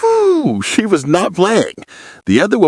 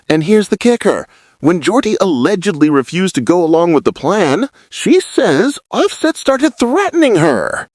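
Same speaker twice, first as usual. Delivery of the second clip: building intensity; 2 semitones higher than usual. Acted. Vlogger building to the threat reveal, growing intensity. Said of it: "Building intensity".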